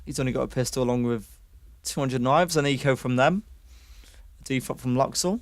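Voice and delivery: fast, lively esports commentary; excited caster calling a round; play-by-play casting. Acted. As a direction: call the action as it happens.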